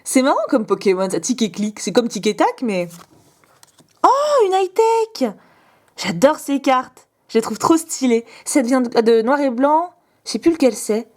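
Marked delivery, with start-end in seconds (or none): 4.0-5.3 high, slow, drawn-out delighted oh; thrilled gasp. Real, not acted. Squealing with joy at a high-tech card. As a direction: stretch it out, overjoyed by the card.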